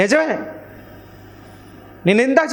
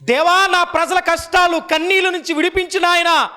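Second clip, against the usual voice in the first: high, fervent acted prayer; imploring, as if praying on your knees; pleading prayer; 7 semitones higher than usual. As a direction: cry out to God on the people's behalf. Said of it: "అని మోకరించి ప్రార్థన చేసేది".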